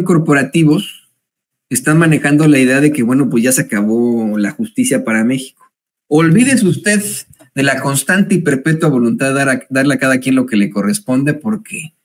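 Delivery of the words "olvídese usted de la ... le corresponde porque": mock-lament, tongue in cheek; mock despair over the judicial strike; sarcastic. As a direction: pretend to mourn the end of justice, dripping irony. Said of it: "Nótese mi sarcasmo".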